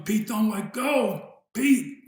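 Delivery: mock yell, slow, rising in pitch and force; retold yelling. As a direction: plead up to a friend, half-shouted. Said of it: "Jots kept yelling".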